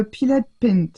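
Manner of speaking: brand name said with a light English accent; a hint of an English accent on the brand name. Shown as a demonstration. Crafter naming her paint brand to viewers, light English accent. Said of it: "avec mon accent anglais".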